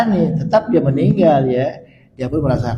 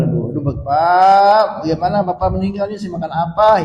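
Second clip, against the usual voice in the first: meniru orang meratap; 4 semitones higher than usual. Retold or imitated. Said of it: "Ada orang begini, saya dengar".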